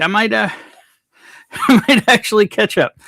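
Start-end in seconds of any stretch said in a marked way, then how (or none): 1.0-2.9 laughing. Real, not acted. Laughing at own slow chat reading.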